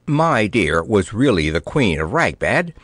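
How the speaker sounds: ordinary delivery, nothing marked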